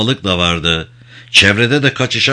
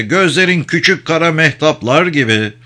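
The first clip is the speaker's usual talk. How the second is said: higher-pitched poetic croon; soothing flattery; caressing voice; 6 semitones higher than usual. A narrator's reading. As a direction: coax the animal with lifted, lilting praise. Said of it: "dedi okşayıcı bir sesle".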